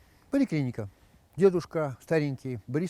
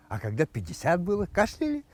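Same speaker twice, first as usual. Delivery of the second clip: doctor voice; 4 semitones higher than usual. Acted. Doctor asks.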